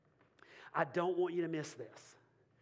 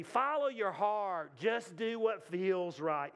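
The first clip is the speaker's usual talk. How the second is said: slow, sarcastic quoting of a cliché; mocking slogan; mocking bad advice; much slower than usual. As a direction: drawl out the cliché to mock it. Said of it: "Listen to me".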